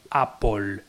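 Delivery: "Apple" said "apol", mocked wrong form. Shown as a demonstration. Mocking Apple fans, "Apple" said "apol". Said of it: "me repatea escuchar".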